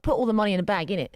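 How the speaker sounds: mock Cockney robbery demand; lightly done Cockney holdup line with innit; Cockney robber. Shown as a demonstration. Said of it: "Or, like".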